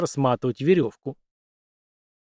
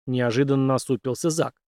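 ordinary delivery

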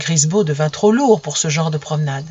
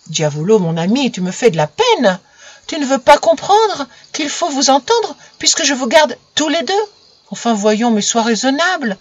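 put-on pleading girl; 6 semitones higher than usual. Louise pleads with her dog.

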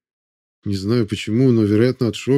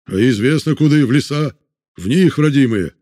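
shouts from the crowd; 3 semitones higher, 3 dB louder than usual. A narrator's reading. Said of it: "Вновь прозвучали крики".

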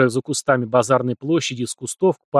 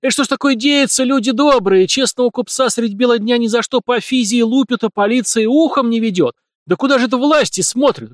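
much higher, louder wailing appeal; shrieking lament; 10 semitones higher, 5 dB louder than usual. A narrator's reading. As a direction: wail it to the good people. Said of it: "визгливо завопил толстяк".

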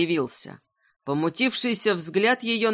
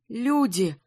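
trembling voice; 3 semitones higher than usual. Acted. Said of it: "дрожащим голосом начала Милава".

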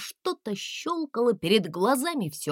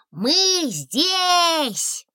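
calling out; 10 semitones higher, 4 dB louder than usual. A narrator's reading. Дракончик кричит через ров.

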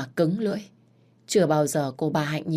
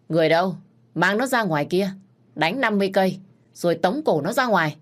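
stern order; 3 semitones higher, 4 dB louder, faster than usual. Acted. Master orders beating.

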